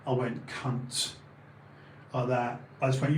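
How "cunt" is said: "cunt" drawn out with a crisp final t; drawn-out insult. Shown as a demonstration. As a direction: land slowly on "cunt", releasing the t. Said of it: "I didn't go cunt. I went cunt".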